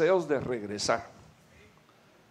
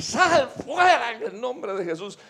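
commanding exorcism; 7 semitones higher, 3 dB louder than usual. Acted. Wife casting out the demon.

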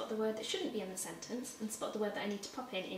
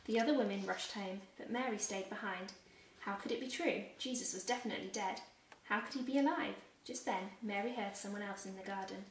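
put-on gentle storybook reading for children; expressive picture-book narration; story narration. A narrator's reading. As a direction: read it like a bedtime Bible story. Reads Bible story to children.

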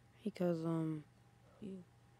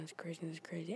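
hushed, amazed whisper; 6 dB quieter than usual. Real, not acted. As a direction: whisper it in disbelief. Hushed amazed vlog reveal.

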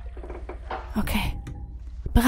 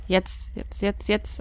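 breathless whispered urging, almost voiceless; tense whisper; 5 dB quieter, slower than usual. Real, not acted. Player urging himself on in a tense moment, whispered. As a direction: hush it out under your breath, nervously.

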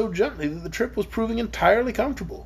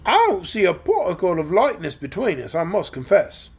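gruff. Acted. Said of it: "retorted Quox gruffly".

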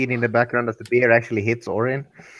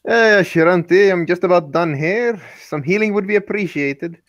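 calling out; 4 semitones higher, 3 dB louder than usual. Acted. Character calls to healer mid-battle.

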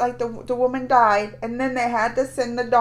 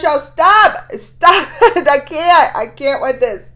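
laughing protest; 3 semitones higher, 13 dB louder than usual. Real, not acted. Overwhelmed reacting to video.

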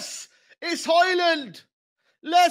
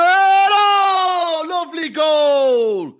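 excited goal call; much slower than usual. Real, not acted. Commentator calling the goal with delight.

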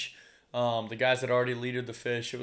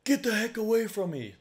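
high, snapped retold warning; real aggressive; 10 semitones higher, 4 dB louder than usual. Stranger warning off the kayaker, an imitated aggressive shout. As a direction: push the rescuer away, hostile. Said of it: "like, real aggressive".

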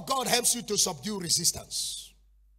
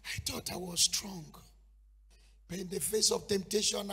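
1 mock weeping prayer; 3 dB quieter than usual. Peter's tearful prayer.

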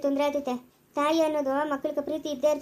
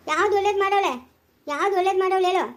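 loud, sharp demand, voice raised; husband rounding on his wife about her mother, angry and raised; angry retort; 3 semitones higher, 3 dB louder than usual. Acted. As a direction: throw the question back in anger.

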